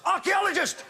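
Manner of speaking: squeaky mock accusation; mock shout. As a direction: shriek it like an outraged heckler. Pun heckle shout.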